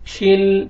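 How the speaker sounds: "शिल" ending on a held, still l; still laam. Shown as a demonstration. Teacher modelling, "शिल" with unshaken l. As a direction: close "शिल" on l with no bounce. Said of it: "लाम को हिलाना नहीं है".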